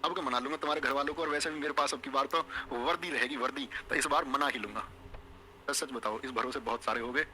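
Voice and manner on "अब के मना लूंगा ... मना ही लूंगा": mock sweet-talk, a little lower, as if promising a girl's family; a hint of a lovesick student; imitating a suitor's promise. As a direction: lightly play the boy swearing he'll win them over. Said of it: "तुमने कह रहे होगे".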